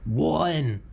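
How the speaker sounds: high, drawn-out mock New York accent. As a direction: stretch it into a cartoon New Yorker accent. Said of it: "He's from New York City".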